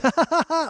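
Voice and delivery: high, loud imitated cackle; unforced gleeful laugh. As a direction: imitate her laughing like she's having fun. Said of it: "like, not forcing it".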